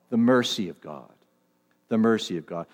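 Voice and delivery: low, softened, reverent repetition; hushed reverence. Real, not acted. Preacher stressing the passage's point to the congregation, hushed reverence. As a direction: let it sink in, low and gentle. Preacher dwells on the key truth.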